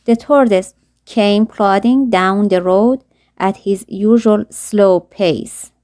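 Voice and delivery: put-on slow, careful read-aloud of a children's story; slow storybook narration. A narrator's reading. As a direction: read each word slowly for learners.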